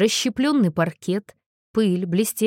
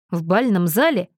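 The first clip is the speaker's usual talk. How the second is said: mildly sceptical question; understated, level-headed scepticism; reasonable doubt. A narrator's reading. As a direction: query it sensibly, with doubt. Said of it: "резонно усомнился Томас".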